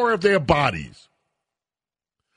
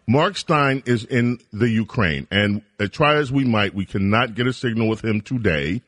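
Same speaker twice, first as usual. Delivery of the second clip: lower, settled talk-radio voice; calmer tone; 6 semitones lower than usual. Real, not acted. Host calming himself for listeners, speaking evenly. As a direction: bring it down, steady and easy. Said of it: "approach this a little bit more calmly".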